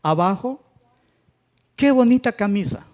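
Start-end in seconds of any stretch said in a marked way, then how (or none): 1.7-2.9 "qué" high and strong, falling through "bonita camisa"; emphatic accent on QUÉ. Shown as a demonstration. Teacher gives class an example of emphatic accent on "qué". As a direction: exclaim it, high-pitched, hitting "qué". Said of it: "Son ejemplos de acento".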